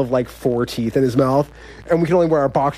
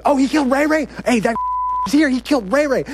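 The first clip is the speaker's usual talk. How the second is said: very high mock yelling; excited high-pitched shout, held back in volume; retold yell; 12 semitones higher than usual. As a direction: imitate an inmate raising the alarm. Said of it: "someone else yells".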